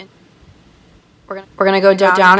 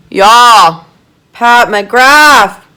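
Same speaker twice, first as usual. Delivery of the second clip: higher, louder brand name; excited shout-out; 5 semitones higher, 9 dB louder, much slower than usual. Real, not acted. Praising the brand to viewers, excited call. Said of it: "getting a little excited".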